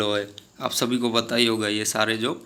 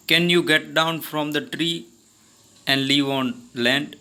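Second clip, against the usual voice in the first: slow, clear read-aloud of the story dialogue; much slower than usual. Acted. Teacher reading the story's English lines to her class, slow and deliberate. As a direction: read each English word slowly for the class.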